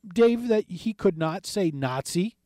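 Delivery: slow, deliberate host pressing the screener on air; slow pointed question. Retold or imitated. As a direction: spell it out slowly so she can't dodge. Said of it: "And he says".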